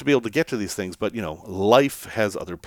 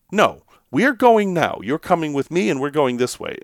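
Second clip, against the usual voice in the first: higher, no-nonsense order; mock bossy insistence; firm command; 3 semitones higher than usual. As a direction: tell them, don't ask. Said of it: "It was like".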